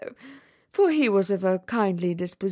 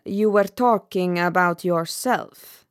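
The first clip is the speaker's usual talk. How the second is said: dry retort; 4 dB louder than usual. Acted. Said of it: "replied the Roman Candle".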